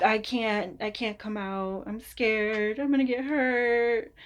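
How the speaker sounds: hammed-up fearful voice, a hint of mockery; mock scared Cancer. Reader voicing scared Cancer hiding in its shell, mock fearful. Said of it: "It sounds like I'm making fun of you".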